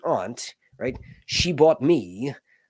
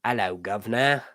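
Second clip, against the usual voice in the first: Cockney greeting in a British accent; British accent at usual pitch; 2 semitones lower than usual. Shown as a demonstration. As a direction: put on a London accent. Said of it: "to do the accent".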